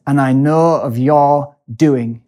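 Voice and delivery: slow, a touch of a trembling voice; understated emotional quiver. Retold or imitated. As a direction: mimic a moved speaker, slowly. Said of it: "he has an emotional quiver in his voice".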